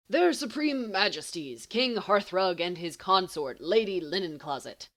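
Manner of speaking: hammed-up royal introduction; mock royal herald. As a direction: proclaim it like a court herald.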